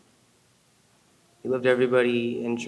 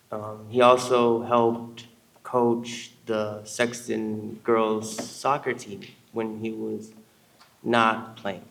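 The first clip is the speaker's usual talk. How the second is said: choking up; slower than usual. Real, not acted. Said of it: "trying not to get all teary-eyed".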